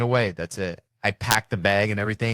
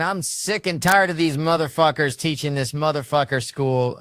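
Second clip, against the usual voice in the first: loud, higher fired-up tirade; Samuel L. Jackson; 7 semitones higher, 5 dB louder than usual. Retold or imitated. Boy cussing out his class like Samuel L. Jackson, loud. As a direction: rant like a movie badass. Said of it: "I thought I was Samuel L. Jackson".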